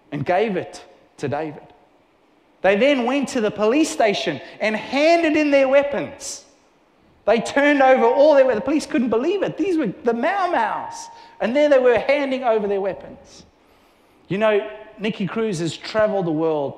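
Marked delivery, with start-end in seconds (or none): 2.6-13.5 higher, louder, building excitement; rising excitement. Acted. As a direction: tell it with mounting wonder. Excited climax of story.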